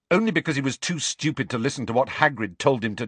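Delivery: angry. Acted. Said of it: "said Harry angrily".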